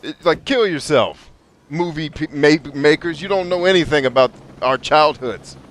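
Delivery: half-hammed outrage at the filmmakers; mock rant. Retelling his reaction to G I Joe, mock indignant rant. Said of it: "I was like".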